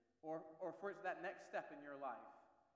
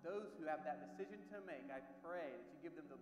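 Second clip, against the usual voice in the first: earnest prayer with pauses between phrases; public prayer. Real, not acted. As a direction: lead the room in heartfelt prayer, phrase by phrase. Leads a congregation in prayer.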